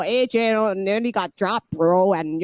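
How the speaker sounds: poor imitation of an American accent; mock American accent, badly done; attempted American accent. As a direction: have a half-hearted go at an American accent. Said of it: "I can't do your accent".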